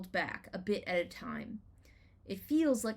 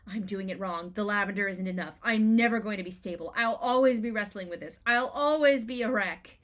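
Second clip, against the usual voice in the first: anxious inner voice, growing louder; retold panic, climbing louder line by line; panicked self-talk; 5 dB louder than usual. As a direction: spiral into panic, building in volume. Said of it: "and I panicked".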